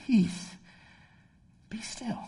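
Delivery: soft, sleepy murmur fading to a whisper; just woken up. Acted. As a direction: groggily whisper the command with long pauses. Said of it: "Jesus was like us. He kinda woke up".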